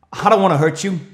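loud, high shout all through; yelling. Retold or imitated. Yelling after the frightened woman running in the bush, loud high shout. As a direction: shout it after her, pleading but loud. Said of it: "I'm yelling".

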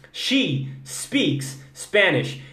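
She speaks Spanish. very slowly, each S clean; slow model sentence. Shown as a demonstration. Teacher modeling the sentence slowly for students. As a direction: spell out each word. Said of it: "E o mais interessante".

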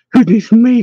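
high-pitched hushed exclamation; forced whispered cry. A narrator's reading. Henwin startled behind Pushiami at the threshold, forced whisper. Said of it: "cried Henwin in a forced whisper".

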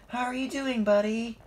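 high, loud cheery greeting; exclaiming. A narrator's reading. Thomas greets Rusty on the tracks, excited exclaiming. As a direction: hail a buddy high and eagerly. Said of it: "exclaimed Thomas".

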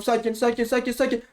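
high, quick repeated muttering to self; tense self-calming. Real, not acted. Player steadying himself through a tricky spot, tense and high-pitched. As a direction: keep chanting it, pitch climbing.

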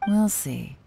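a quick unvoiced whisper. To Paimon, hinting at her choice, in a whisper. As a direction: keep it close and secret, just breath. Noncommittal reply after candidate praise.

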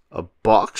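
high-pitched exclaimed question; excited shout. A narrator's reading. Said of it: "shouted S-, SpongeBob".

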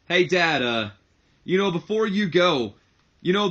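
lightly voiced smug gloating; smug taunt. Shane gloating to his father after the contract signing, smug grin. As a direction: savor the reveal with a grin. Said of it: "big smile on his face, goes on to say".

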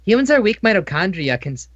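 villain monologue. Acted. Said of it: "Are you gonna monologue all day?".

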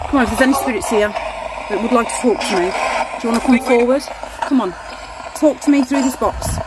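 calling out to spirits. Real, not acted.

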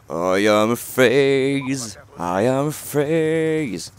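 drawn-out grand English boast, very slow; slow hammed-up boast. Gamer gloats after his kill, slow hammed-up boast. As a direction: savour each word like a champion's chant. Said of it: "faut que je me calme".

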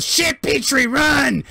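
high yelled warning; panicked shout. Acted. Grick yelling for the droid to run, panicked. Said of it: "Grick goes".

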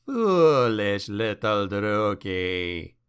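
low, slow, menacing demon. Acted. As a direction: draw it out like an ancient evil. Demon speaks to Malus.

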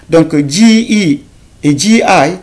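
donc G I said slowly; slow classroom spelling; slow teacher. Shown as a demonstration. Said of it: "summing up for learners".

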